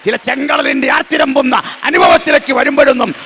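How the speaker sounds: fervent sermon peak, shouting over music; preaching at full force. Real, not acted. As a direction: preach it to the rafters. Preacher builds to climax.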